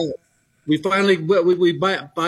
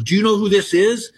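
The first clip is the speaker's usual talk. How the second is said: eager and higher, a thrilled fan; older lady asks the girl, higher and thrilled; excited, higher; 8 semitones higher than usual. Retold or imitated. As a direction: pitch it up like she can't contain herself. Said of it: "She goes".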